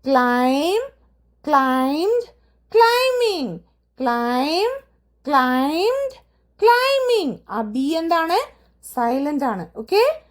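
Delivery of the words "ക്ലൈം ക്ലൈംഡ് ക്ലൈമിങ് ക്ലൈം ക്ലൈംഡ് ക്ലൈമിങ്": ക്ലൈം, ക്ലൈംഡ്, ക്ലൈമിങ് said with no b, ക്ലൈമിങ് pitched high and falling; repeat-after-me drill of the three forms with silent b. Shown as a demonstration. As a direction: lead the class through ക്ലൈം, ക്ലൈംഡ്, ക്ലൈമിങ്, b silent each time. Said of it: "എൻ്റെ കൂടെ തന്നെ ഒന്ന് അത് pronounce ചെയ്യാൻ ശ്രമിക്കൂ".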